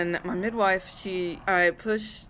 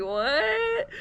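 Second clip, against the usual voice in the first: shocked what. Retold or imitated. Shock that baby is breech.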